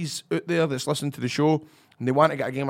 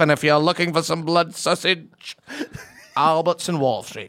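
put-on northern English soap voice; northern English impression, easing down from the bellow; Fred Elliott; 2 semitones higher than usual. Actor shows host his inspiration, northern English character voice. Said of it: "who did you watch or who you inspired".

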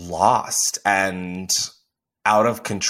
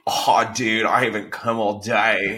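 mock Australian bro. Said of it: "That sounded so Australian".

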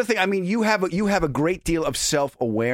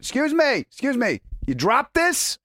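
much higher, sugary sarcastic courtesy; mock politeness; 10 semitones higher than usual. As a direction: fake sweetness before the insult. Mock polite before giving finger.

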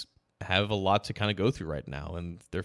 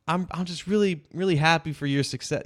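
higher, gushing tipsy slur; drunk voice; 8 semitones higher than usual. Retold or imitated. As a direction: gush like a happy drunk friend. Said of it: "you have that drunk voice".

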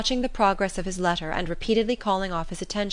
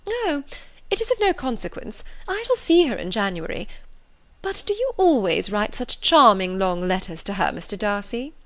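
Miss Bingley's gushing voice; 3 semitones higher than usual. Acted. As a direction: flatter him, gushing and showy.

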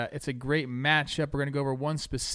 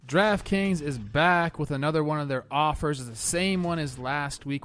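ad read. Acted. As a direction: sell it like a radio spot. Host reads sponsor ad.

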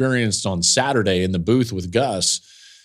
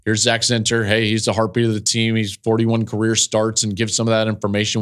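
brisk, hurried on-air recap; quick broadcast rundown. Shown as a demonstration. Broadcaster demoing his quick on-air intro, hurried. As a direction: rattle it off fast before the break. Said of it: "talk about Zach Zinter quickly".

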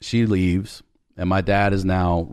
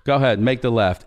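exasperated; 4 semitones higher than usual. Retold or imitated. Dad giving up, exasperated.

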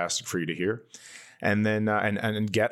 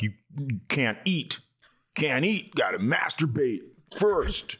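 lightly voiced Hay Bales; 5 semitones higher than usual. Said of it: "it's his thing where he's like".

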